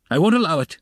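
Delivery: high, loud outburst of refusal; shouted. A narrator's reading. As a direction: shout your refusal in anger. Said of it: "he shouted".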